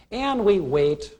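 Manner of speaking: drawn out, slow and waiting; slow impatient wait. Shown as a demonstration. To the class, acting out waiting at a restaurant, slow and drawn out. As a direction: stretch it out like a long wait. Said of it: "we're getting a little impatient".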